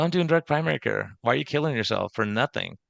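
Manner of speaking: voz de Troy imitada, más aguda; imitating Troy. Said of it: "You go".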